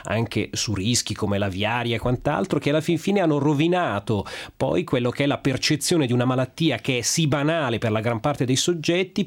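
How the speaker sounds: talking with a blocked nose; stuffy nose from a cold. Real, not acted. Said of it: "Io stesso al naso chiuso".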